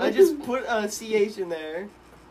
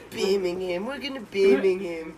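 mock British accent; 3 semitones higher, 4 dB louder than usual. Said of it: "That's my British accent".

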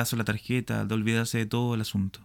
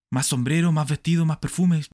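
mocking list; 6 semitones higher, 6 dB louder than usual. Mocking wife's spending.

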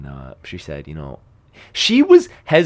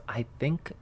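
slow hesitant quote; 3 semitones higher, slower than usual. Retold or imitated. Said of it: "She says".

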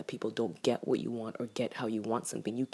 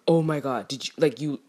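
loud retold outburst; imitated loud protest; going off; 6 dB louder than usual. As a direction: go off in indignant disbelief. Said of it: "just literally going off".

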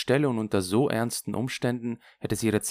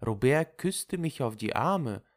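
higher, self-satisfied recounting; chatty Lulu; 8 semitones higher than usual. Acted. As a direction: relate your revenge brightly, pitched up. (zufrieden plaudernde Lulu)

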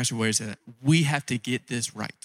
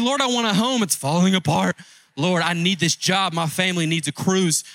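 whiny mock prayer; 4 semitones higher than usual. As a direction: ham up a believer who always wants more. Parodies complaining prayers.

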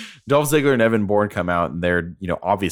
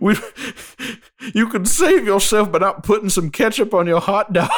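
a badly faked Chicago accent, louder and higher, breaking into laughter; failed Chicago accent; 12 semitones higher, 3 dB louder than usual. Cohost mocking a Chicago wrestler, fake Chicago accent while laughing. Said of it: "It didn't sound like from Chicago at all".

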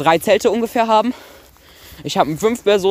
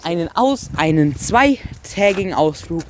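infomercial. Pretend. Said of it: "vernünftige Werbung machen".

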